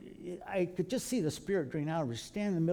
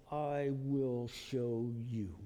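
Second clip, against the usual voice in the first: grim vow; 6 semitones lower, 6 dB quieter, much slower than usual. Retold or imitated. Son vows after being hit.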